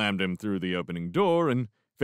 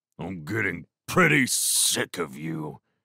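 menacing, threatening tone; 3 semitones lower than usual. A man gripping Gettle speaks to Crow, menacing. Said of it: "he added menacingly".

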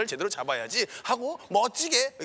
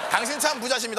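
normal talking voice

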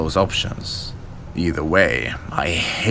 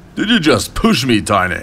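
far too loud, pitched up; 7 semitones higher, 5 dB louder than usual. Narrator reads a bully confronting a scrawny kid in a crowded hallway, way too loud. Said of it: "he said way too loud".

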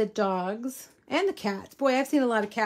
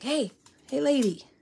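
put-on gruff old dog voice; 3 semitones higher than usual. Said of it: "But the old man is down here like".

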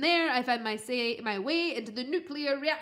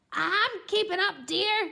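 high, hissed delivery; 8 semitones higher, 4 dB louder than usual. A pear trailing behind answers the grapefruit's urging: hissed. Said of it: "hissed the pear".

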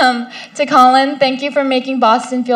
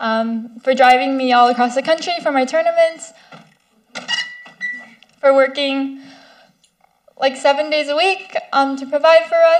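tearful, crying through the words. Thanking her parents during a speech to an audience, crying while talking. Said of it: "I didn't expect to be crying".

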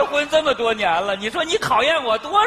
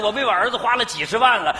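plain

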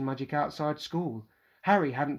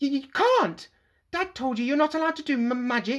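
very high-pitched, panic-stricken voice; 11 semitones higher than usual. Narrator reads Dudley stumbling backwards from Harry, panicked. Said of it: "a look of panic on his fat face".

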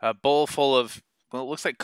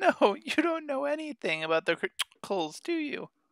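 very high, gently giggling elf voice; 4 dB quieter than usual. A game master voices the elf who keeps the jail: gently giggling elf voice. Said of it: "As they opened the door, she kind of giggled gently and went, "Haha, I'm the elf. How can I help you?"".

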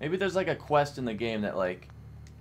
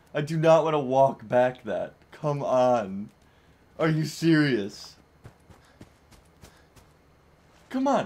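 really angry, frustrated complaining; 6 dB louder than usual. Streamer in a game, forced to walk all the way back, pissed off. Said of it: "I'm actually pissed as fuck right now".

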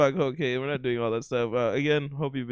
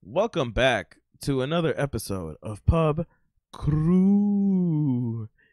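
slow spooky put-on voice, "Crew" stretched out. Welcoming listeners back to another episode: put-on Dracula voice.

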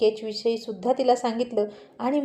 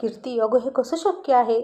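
plain

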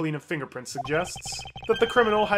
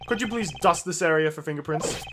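ordinary talk, nothing marked

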